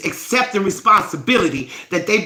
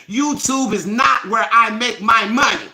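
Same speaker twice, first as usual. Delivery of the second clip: firm statement. Real, not acted. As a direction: state it flatly to the live chat.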